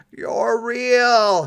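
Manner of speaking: high, loud joyful cry; joyful shout. A narrator's reading. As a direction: burst out with delight. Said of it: "he shouted joyfully".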